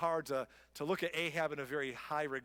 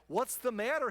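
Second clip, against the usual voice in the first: louder, higher wife asking what's wrong; a wife pressing her sulking husband, higher and louder; wife's concern; 6 semitones higher, 5 dB louder than usual. Acted. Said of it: "his wife Jezebel asked him".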